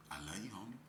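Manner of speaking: very soft, low, sly voice; devil's luring. Acted. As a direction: drop right down, quietly tempting like the devil. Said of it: "But the devil, he said too".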